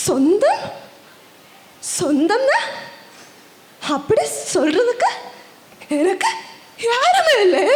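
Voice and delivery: wounded, questioning lament; acted sorrow, rising at the end; forlorn lament. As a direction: echo the word in hurt, then lament. Orphaned performer laments having nobody.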